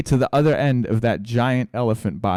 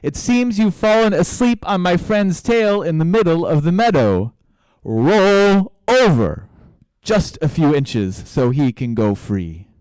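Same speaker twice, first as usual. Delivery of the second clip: high, loud, drawn-out holler; little mouse bellowing slowly into a giant ear; shouting with full voice; 7 semitones higher, 7 dB louder than usual. A narrator's reading. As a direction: shout it with all your voice, stretching key words. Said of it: "he shouted with all of his voice".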